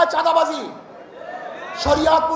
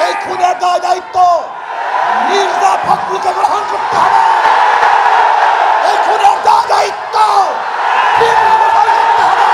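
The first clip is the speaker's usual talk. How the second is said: tearful shouting, rising higher and louder; snotty crying; 3 semitones higher, 6 dB louder than usual. Real, not acted. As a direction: voice breaking through tears while yelling. Rally speaker escalates demand for accountability.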